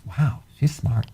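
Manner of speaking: slow, honestly amazed wow; surprised. Real, not acted. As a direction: sound genuinely surprised by her. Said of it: "He sounds so surprised".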